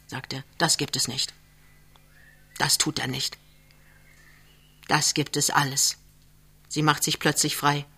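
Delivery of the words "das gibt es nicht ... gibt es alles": subdued, steady comforting; gently soothing. A narrator's reading. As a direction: quietly talk her out of her fear. He calms the crying woman.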